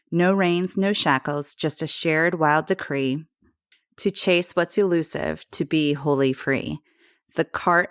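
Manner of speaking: measured, rhythmic poetry reading; poem recitation. Acted. Reads a poem over music.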